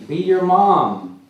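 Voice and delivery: put-on high, loud, drawn-out child voice; slow, insistent little-kid command; bossy toddler. A narrator's reading. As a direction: order a playmate like a two-year-old. Toddler orders playmate in story.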